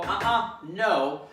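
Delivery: slow, calm, firm "Uh-uh, no"; calm and assertive. Shown as a demonstration. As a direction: correct the dog calmly but firmly. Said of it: "this is all calm and assertive".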